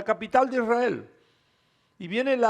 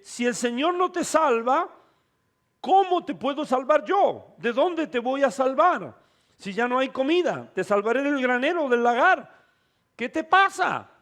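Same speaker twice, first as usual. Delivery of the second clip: the helpless king; 3 semitones higher than usual. Acted. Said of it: "le responde y le dice".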